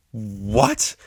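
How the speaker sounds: shouted. Acted. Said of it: "they shouted in unison".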